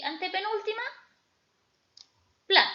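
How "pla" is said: "pla" given the main force of the voice; stressed syllable. Shown as a demonstration. Teacher showing students where the voice's force falls, stressed syllable. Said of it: "¿Dónde cargo yo la mayor fuerza de voz?".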